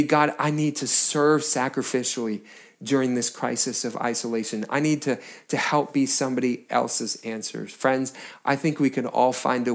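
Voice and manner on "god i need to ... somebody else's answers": quiet prayer. Shown as a demonstration. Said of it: "Or maybe".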